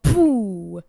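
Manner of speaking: sudden loud jump-scare shout; startling boo. Acted. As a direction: yell it to make them jump. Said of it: "Did I scare you?".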